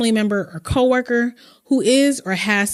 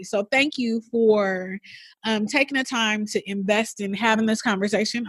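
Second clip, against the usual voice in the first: emotional; 3 dB quieter than usual. Real, not acted. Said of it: "I'm all emotional".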